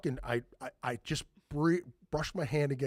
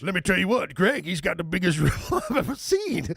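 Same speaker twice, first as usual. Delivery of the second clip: mock brag; 2 semitones higher, 5 dB louder than usual. Mock-bragging girlfriend line.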